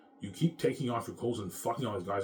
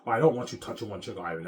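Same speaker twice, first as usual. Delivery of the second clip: mock her selfish reasoning, half-hearted impression; a hint of a brazen wife, voiced with scorn; mocking his wife; 6 dB louder than usual. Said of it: "That's the way she thinks".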